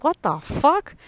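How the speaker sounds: high, loud disbelief; outraged yell. Retold or imitated. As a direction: re-enact an incredulous outburst at dad. Retold outraged reply to dad.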